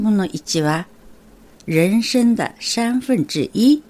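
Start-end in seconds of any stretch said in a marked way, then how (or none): 1.7-3.8 slow Mandarin phrase for learners; model Mandarin pronunciation. Shown as a demonstration. Teacher gives the first half of the phrase, slow careful Mandarin. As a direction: say 人生的三分之一 slowly with every tone drawn out. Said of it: "と言います".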